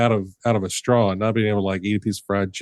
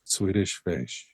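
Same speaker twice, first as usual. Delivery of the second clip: savoring; 3 semitones lower, 7 dB quieter, much slower than usual. Real, not acted. Savoring the snack's name.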